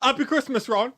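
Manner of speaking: high, laughing Harry voice; Harry Potter impression. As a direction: quote it in a squeaky voice.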